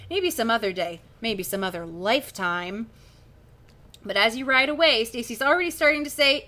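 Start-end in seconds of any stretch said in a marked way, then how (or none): 1.2-2.9 slow, deadpan put-down; dry punchline. Acted. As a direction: let the joke land slowly. Drawn-out punchline of the brush-off.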